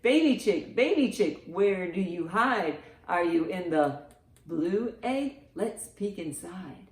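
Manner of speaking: usual speaking voice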